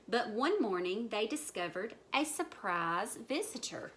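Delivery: put-on measured, lively reading to children; story narration. A narrator's reading. Storyteller opens tale of frog pond, measured narration. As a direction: tell it like a picture-book story.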